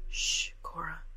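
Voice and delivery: calm her down gently; hushing whisper. A narrator's reading. Emery soothes crying Cora in a whisper.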